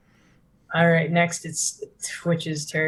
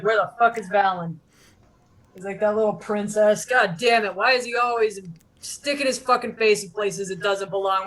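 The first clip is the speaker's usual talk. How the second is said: angry; 4 semitones higher than usual. Acted. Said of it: "and he's like".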